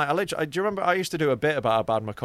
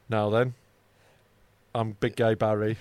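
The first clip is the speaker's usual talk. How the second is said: deep gay man voice; 6 semitones lower than usual. Pretend. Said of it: "I'm gonna be a gay man".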